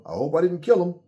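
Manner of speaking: high, loud mock cop voice; imitating a cop, high and loud. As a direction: ham up the cop's fake worry. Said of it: "you hear the cop go".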